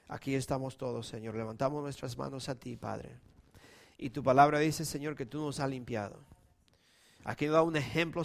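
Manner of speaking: hushed pastoral prayer. Acted. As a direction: pray gently over the kneeling church.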